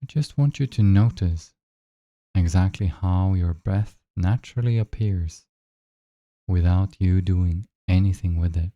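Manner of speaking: unhurried guide with long silences between phrases; measured meditation voice, leaving room to breathe; guided meditation. Acted. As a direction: lead them gently into noticing the breath.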